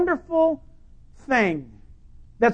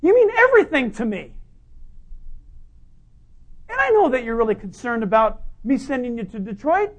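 mock God voice; 5 semitones higher, 4 dB louder than usual. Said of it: "God is not gonna say".

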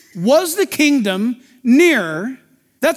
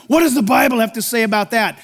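shouted question; 2 semitones lower than usual. Retold or imitated. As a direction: shout out what everyone asks. People turn to the Bible.

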